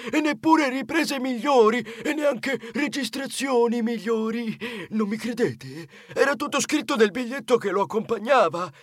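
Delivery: boastful, puffed-up cousin; proud. Acted. Cousin bragging about his gifted phone, swelling with pride. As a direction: show off grandly, relishing each boast. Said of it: "Lui rispose con orgoglio".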